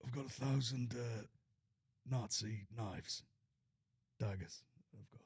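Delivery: a hint of Tyson Fury, slow and soft; just a touch of Fury's voice; understated Fury impression; lightly voiced Tyson Fury. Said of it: "Tyson Fury, That voice".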